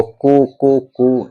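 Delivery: कु said short then held long; vowel length demo. Shown as a demonstration. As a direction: show short and long कु one after the other. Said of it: "प्लुत संज्ञा होगी".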